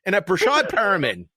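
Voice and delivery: high-pitched exasperated list of grievances; angry venting. Real, not acted. Fantasy owner blaming a list of players, angry venting. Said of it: "I'm also angry".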